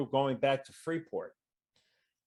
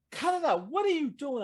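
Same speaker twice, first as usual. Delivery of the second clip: mock yell; 12 semitones higher than usual. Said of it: "I'm yelling at the guy".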